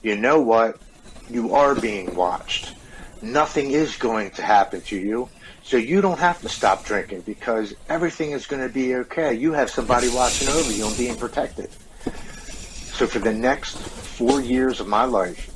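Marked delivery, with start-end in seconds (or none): 0.0-11.7 lightly voiced tempting addiction. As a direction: addiction talking him back into drinking. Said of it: "my addictive personality steps in and says".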